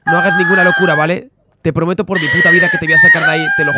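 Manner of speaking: desperate shouting. Acted. Boyfriend shouting desperate promises.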